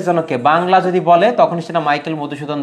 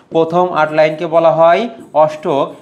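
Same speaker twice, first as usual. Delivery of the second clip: slower, each word spaced out for dictation; slow repeat; slower than usual. Shown as a demonstration. Teacher repeating the octave definition for students, slow and spaced. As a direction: repeat it slowly so students can note it.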